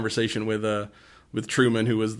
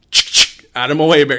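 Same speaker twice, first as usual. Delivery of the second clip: mock shout; 3 semitones higher, 10 dB louder than usual. Father shoving past with a shotgun.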